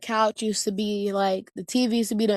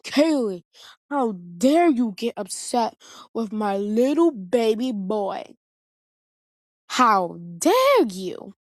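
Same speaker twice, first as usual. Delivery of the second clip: mock scolding dad; slower than usual. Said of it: "and he's like".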